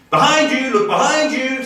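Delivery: high, loud bird cry; urgent warning cry. A narrator's reading. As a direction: warn the mongoose, fast. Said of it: "sang Darzee".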